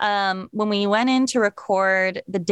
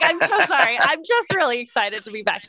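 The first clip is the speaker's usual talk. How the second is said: high-pitched retold gushing apology; excited apology; 5 semitones higher than usual. Actress apologizing to her director, retold excited gushing. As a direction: playfully re-enact bubbling over with excitement. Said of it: "I personally was so excited".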